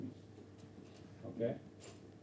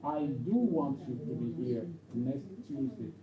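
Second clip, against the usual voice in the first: slow sentence with "do want" leaned on; insistent DO. Shown as a demonstration. Teacher repeating it for a student to explain, slow insistent "do". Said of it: "a form of insistence".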